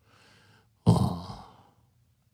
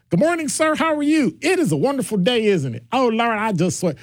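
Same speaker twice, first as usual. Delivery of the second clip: higher, overly polite proper voice; code-switch voice; 6 semitones higher than usual. Shown as a demonstration. Host demos talking to a police officer, prim and high. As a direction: sound extra proper and polite. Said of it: "you talk like you're white".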